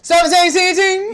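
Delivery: high, loud questioning repeat; surprised realization. Real, not acted. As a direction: repeat it loudly as a startled question. Surprised on learning the real words.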